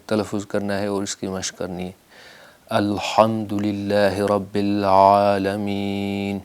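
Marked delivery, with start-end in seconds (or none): 2.7-6.4 الحمدللہ رب العالمین recited very slowly in a chanted style; measured Quranic chant; slow recitation. Shown as a demonstration. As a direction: draw each word out like a tajweed teacher. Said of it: "عالمین حمزہ کے ساتھ ادائیگی کا خطرہ ہے".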